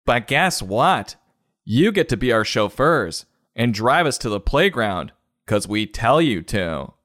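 mock smug child; bratty kid. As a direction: gloat at the parents. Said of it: "The kids are like".

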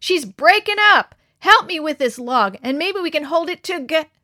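high, loud panicked yelling; boy calling his friends to save the raft; urgent shout. A narrator's reading. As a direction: yell for help over the waves. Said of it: "shouted Harold above the roar".

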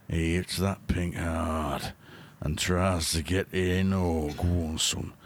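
cheeky Yorkshire snooker commentator; Yorkshire accent. Acted. Reading a mate's innuendo snooker script in a Yorkshire accent. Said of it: "in a Yorkshire accent".

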